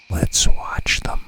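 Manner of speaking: slow hushed whisper. Retold or imitated. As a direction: barely breathe the words, slowly. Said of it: "He whispered back".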